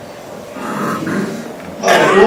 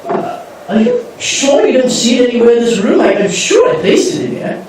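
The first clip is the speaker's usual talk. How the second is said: Benjamin Wickerdent; 6 semitones higher than usual. Acted. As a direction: play a haughty, grandiose lord who relishes ceremony. Lord asks Biddy about pipe.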